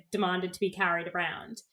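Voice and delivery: unvoiced whisper, hushed; a conspiratorial whisper. Real, not acted. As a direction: whisper it like juicy gossip. Whispered aside about denial.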